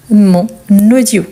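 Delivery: MON, then AUDIO begun with a linking n; liaison in MON AUDIO. Shown as a demonstration. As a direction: demonstrate MON AUDIO as "mon... naudio". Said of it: "la règle, elle s'applique aussi".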